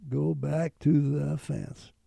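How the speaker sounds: slow, firm command; inner voice command. Retold or imitated. An inner voice orders the pilot back to the fence, slow firm command. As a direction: order it slowly, no hesitation. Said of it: "Just like a command".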